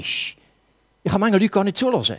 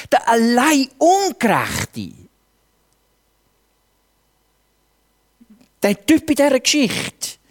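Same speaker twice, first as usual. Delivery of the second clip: raised, insistent preacher's delivery; emphatic preaching; 4 semitones higher, 3 dB louder than usual. Real, not acted. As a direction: press the message home with real force. Preaches with rising force. (eindringliches Predigen)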